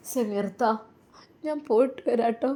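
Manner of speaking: understated weepy parting; sobbing goodbye. Acted. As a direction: swallow a sob on the goodbye. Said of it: "Nusaiba വിതുമ്പിക്കൊണ്ട്".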